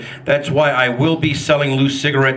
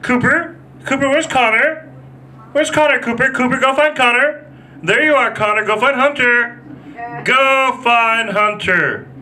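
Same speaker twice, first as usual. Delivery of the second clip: put-on high sing-song mom calling kids; imitating a playground mom; mock young mother; 11 semitones higher than usual. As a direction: call out kids' names high, in a preppy mom voice. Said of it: "I heard a young mother".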